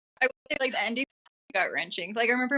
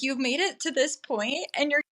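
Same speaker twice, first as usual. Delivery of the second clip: exasperated quote; 7 semitones higher than usual. Retold or imitated. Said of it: "I was like".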